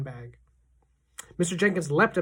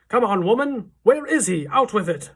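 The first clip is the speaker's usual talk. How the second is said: angry demand; 6 semitones higher, 8 dB louder than usual. A narrator's reading. Furious father demands his son.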